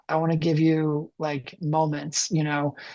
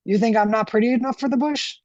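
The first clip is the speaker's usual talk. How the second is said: higher, coy flirting voice; flirty; 6 semitones higher, 3 dB louder than usual. Acted. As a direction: lift the voice like a flirt. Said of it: "I lifted my voice in the manner of a flirt".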